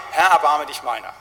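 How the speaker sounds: crying out. Retold or imitated. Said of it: "fängt er an zu schreien".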